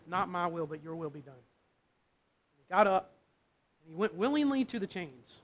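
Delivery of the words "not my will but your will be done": much softer, lower, almost breathless yielding; quiet surrender. Acted. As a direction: let go and give in, barely audible. Jesus's quiet final surrender.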